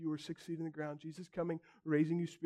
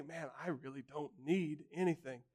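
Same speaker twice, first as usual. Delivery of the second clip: complacent. Retold or imitated. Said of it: "wealth can make us comfortable and say".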